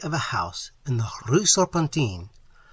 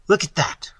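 crying out; 7 semitones higher, 5 dB louder than usual. A narrator's reading. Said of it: "cried West".

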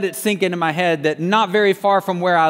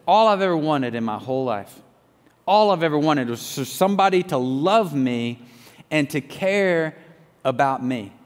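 lower, halting, understated sorrow; retold tearful plea; 3 semitones lower than usual. Prisoner in tears turns to the officer, subdued retold sorrow. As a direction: quote his tearful words gently, with heavy pauses. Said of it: "he's crying, and he says".

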